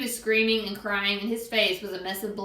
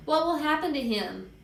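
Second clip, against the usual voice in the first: higher-pitched anxious question; acted upset girl's question; tearful worry; 6 semitones higher than usual. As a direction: ask it in distressed concern. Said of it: "Sheila cried".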